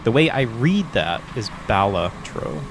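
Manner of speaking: Balatro as "BAL-uh-tro", first syllable stressed; Steve's reading. Shown as a demonstration. Streamer repeats Steve's reading from chat. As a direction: read Balatro as PAL-uh-tro the way Steve does. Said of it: "'Cause Steve says".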